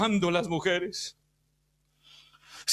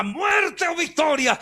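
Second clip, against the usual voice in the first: mock war cry; 5 semitones higher, slower than usual. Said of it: "gritos de guerra era".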